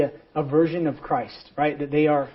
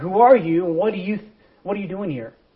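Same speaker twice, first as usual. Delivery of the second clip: mock thundering, booming, loud voice; 4 semitones higher, 5 dB louder than usual. Telling a story, voicing an irritated guard repeating his question: booming loud voice. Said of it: "comes booming from above even louder".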